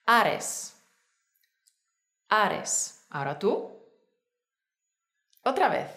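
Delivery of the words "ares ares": "Ares" with one light tap on the R; single-tap R. Shown as a demonstration. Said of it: "tiene otra R simple".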